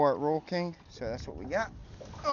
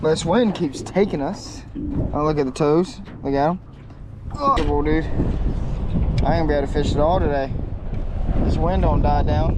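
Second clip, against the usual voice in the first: shouting over wind; 5 dB louder than usual. Real, not acted. This wind is really strong right now.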